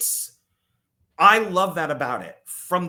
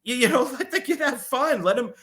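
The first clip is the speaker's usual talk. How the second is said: put-on high, indignant old man talking back; mock defiant grandpa; 7 semitones higher than usual. Grandpa Joe telling off Charlie's mom, high and indignant. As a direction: pitch up and defend the kid like a cranky grandpa. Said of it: "Grandpa Joe was like".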